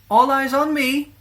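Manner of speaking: high, loud, slow teacher's call to the class. A narrator's reading. Teacher calling her class to attention. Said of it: "called Missus Moon".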